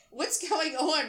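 high, drawn-out alarmed yell; yelling back. A narrator's reading. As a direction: yell back, slow and bewildered. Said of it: "Rob yells back to me".

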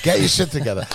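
pumping himself up in the mirror; pep talk to himself. Retold or imitated. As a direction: drunk guy firing himself up in the bathroom mirror. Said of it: "Like, pep talking myself".

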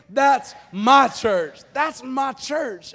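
slow, weighty "That's my church", each word stressed; emphatic. Shown as a demonstration. Pastor leading congregation to say it with him, emphatic "That's my church". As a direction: lead a crowd in declaring "That's my church". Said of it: "put a little emphasis".

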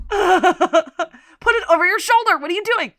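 high, loud, laughing yell at Debbie; laughing mock shout. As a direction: cackle through the line like scolding a friend. Mocking Debbie's hair, laughing.

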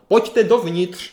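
drawn-out loud call from the back; volání zezadu. Retold or imitated. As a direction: call them in, stretching the words. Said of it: "zezadu někde ozvalo". (hlasité protáhlé zavolání)

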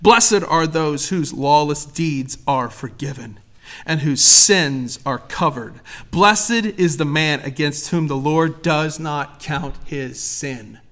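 slow, weighty reading of scripture. Acted. Preacher reads Romans to the congregation, slow solemn reading. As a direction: read it slowly, letting it land. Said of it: "Listen to this".

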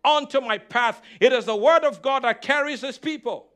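punchy sermon cadence, leaning on key words; emphatic preaching. Real, not acted. Preacher teaching the congregation the gospel, emphatic preaching. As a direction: declare scripture with conviction.

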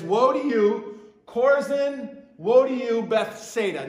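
Jesus denouncing. Retold or imitated. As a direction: call out the towns in judgement. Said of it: "Here he says".

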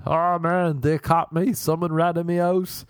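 high, panicky voice of a caught friend; panicked friend. Retold or imitated. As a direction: squeak it out like a busted student.

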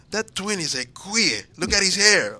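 a hint of a slow, stern dad; strict dad voice. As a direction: lightly voice a disapproving father. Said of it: "so he would say".

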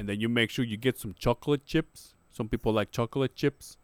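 lightly imitated fighter's accent; Francis Ngannou accent. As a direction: explain a recipe in a put-on foreign accent. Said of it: "Tell me, in his accent".

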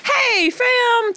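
high, loose casual greeting; relaxed homey greeting; casual slang voice. Retold or imitated. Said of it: "I go from".

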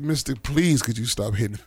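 hammed-up plea for mercy; mock pleading lady. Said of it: "She said".

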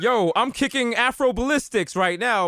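hip-hop mayor. Acted. Mayor addresses press conference, mock hip-hop hype. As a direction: play a mayor trying street slang.

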